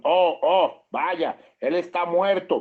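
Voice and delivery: startled cry. Retold or imitated. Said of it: "Ellos gritaron".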